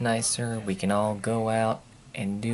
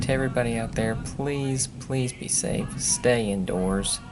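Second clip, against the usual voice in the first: serious warning announcement; newscaster voice. Real, not acted. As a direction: read it like a storm bulletin. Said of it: "I sound like a newscaster when I do that crap".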